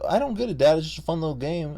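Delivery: put-on high, pleading kid voice; a young son's high protest; younger self, pleading. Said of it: "And I was like".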